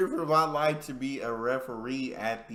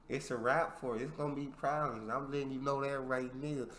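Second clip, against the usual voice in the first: quick, softer mock warning; acted quiet threat; threatening fan; 6 dB quieter, faster than usual. Same acted threat, voice drops.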